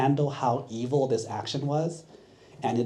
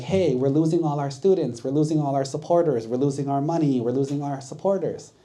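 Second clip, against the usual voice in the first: louder, raised, complaining teachers; upset complaint; 3 semitones higher, 4 dB louder than usual. Retold or imitated. Old religion teachers complaining about losing students, upset and loud. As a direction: rattle off the losses in a huff. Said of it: "the old religions would start to get upset".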